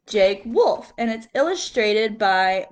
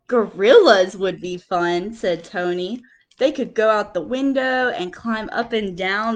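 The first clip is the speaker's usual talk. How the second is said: lively picture-book reading with quote voices; reading to children; 2 semitones lower than usual. Acted. Teacher reading picture book to class, lively storytelling. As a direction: read it like story time for little kids.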